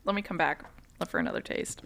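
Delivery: talking with food in mouth; mouth noises. Real, not acted. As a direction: speak around a mouthful. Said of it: "I'm sorry for the mouth noises".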